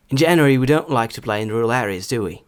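fluent example reading at normal speed; стандартна швидкість. Shown as a demonstration. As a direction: read it through in one connected flow. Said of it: "а потім вже зі стандартною швидкістю". (зв'язно, у звичайному темпі)

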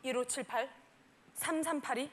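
put-on low, soft boyfriend voice; boyfriend on phone. Boyfriend calling his girlfriend, low soft recital. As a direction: imitate him reciting numbers, low and soft. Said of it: "어제 나한테 전화해서 이러는 거야".

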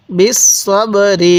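slow, drawn-out বিস সব রি; model recitation. Shown as a demonstration. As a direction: hold each syllable of বিস সব রি, separately. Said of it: "এরকমভাবে শিখব".

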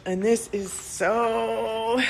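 high, drawn-out, tearful voice; fighting real tears, drag the words out; overcome with emotion. Real, not acted. Woman lamenting the damage to her business, tearful. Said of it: "emotional. It just comes out".

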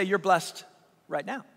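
low, soft, tender delivery; hushed assurance. Retold or imitated. Preacher voicing Jesus to hurting listeners, hushed assurance. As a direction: drop low and say it softly. Same words, gently, to the suffering.

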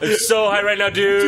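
stoner. Acted. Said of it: "That was them high".

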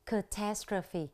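Catastrophe said slowly, stressed on TAS; ca-TAS-tro-phe, careful and slow Catastrophe; second-syllable stress. Shown as a demonstration. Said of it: "nhấn ở âm tiết thứ hai".

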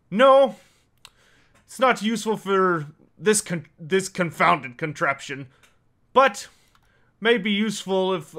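lightly voiced dwarf, emphatic first word; a hint of a dwarf boss mulling it over; dwarf character. Dwarf weighs the newcomer's usefulness, lightly voiced character.

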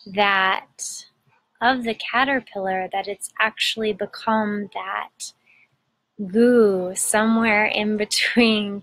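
unhurried meditation guide with long pauses; measured, soothing guidance, phrase by phrase; guided meditation. Acted. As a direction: gently lead listeners inward, pausing between phrases.

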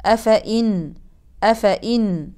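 أفإن stopped on a silent nun; pausal form. Shown as a demonstration. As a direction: end أفإن with sukun. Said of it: "أقف بالسكون". (وقف بالسكون)

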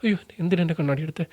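mock-fearful plea; scared. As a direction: imitate a man alarmed, not angry. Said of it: "ഭയം ഉണ്ടാവാം".

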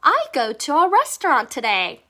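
whole sentence very slow, I stressed, falling; slow model sentence. Shown as a demonstration. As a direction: model the sentence slowly for copying. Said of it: "문장에서 쓸 때는요".

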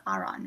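"Aaron" said as AH-ron; "Aaron" with an open "ah" at the start; Korean pronunciation. Shown as a demonstration. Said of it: "that's how they say it in Korean".

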